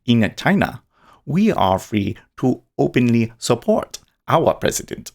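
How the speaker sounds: put-on a light, self-admittedly awful Chinese accent. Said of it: "I'll try and do a Chinese accent".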